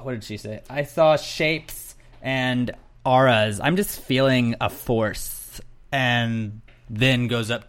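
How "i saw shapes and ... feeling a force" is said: slow, dreamy mock voice; slow mystical parody; mock spacey Caitlyn. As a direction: drawl it like you're seeing visions. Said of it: "Caitlyn almost immediately is like".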